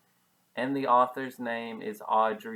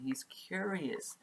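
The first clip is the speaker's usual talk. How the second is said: whispering; 5 semitones higher, 4 dB quieter, slower than usual. Acted. Whispered aside to class.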